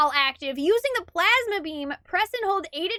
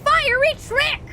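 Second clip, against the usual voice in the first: clickbait video narrator; 5 semitones higher, 3 dB louder than usual. Pretend. Clickbait headline parody.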